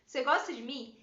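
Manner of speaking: loud, pleading ask. Retold or imitated. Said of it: "eu falei". (pergunta retomada mais alta)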